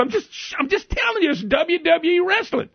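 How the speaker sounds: husband teasing his annoyed wife, gleeful; teasing needle. Retold or imitated. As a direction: rub it in with a grin. Needling angry wife, laughing.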